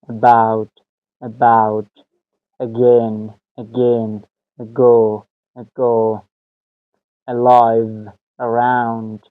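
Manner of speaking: "About" and "Again" with a tiny "uh" before the stressed syllable; unstressed schwa. Shown as a demonstration. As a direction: model each word like "Ago", first vowel barely touched. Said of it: "هیچ گونه استریس را".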